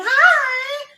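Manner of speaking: very high sing-song greeting; high baby-talk hello; cooing hi. Retold or imitated. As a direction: coo it at a small child. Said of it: "looking right in my face".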